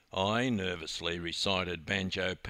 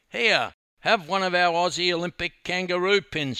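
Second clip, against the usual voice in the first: loud, high, breezy offer; eager offer; 8 semitones higher, 7 dB louder than usual. A narrator's reading. Dawn handing pins to the five youths, eager offer. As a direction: offer it boldly in a raised voice.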